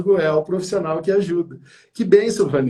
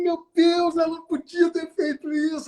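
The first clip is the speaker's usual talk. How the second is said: high, aghast oh my God; dismayed disbelief; 11 semitones higher than usual. Retold or imitated. Host reliving his shock at the presenter's excuse, high dismay. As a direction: replay the shock of hearing her. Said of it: "Ela falou isso".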